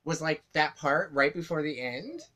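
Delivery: a light take on Amanda; Amanda impression. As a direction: mimic her repeated phrasing lightly. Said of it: "quick impression of Amanda".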